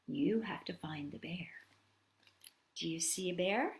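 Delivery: soft conspiratorial whisper. Pretend. Inviting children to spot the bear, whispered. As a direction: whisper it like a secret hunt. Hushed search game with kids.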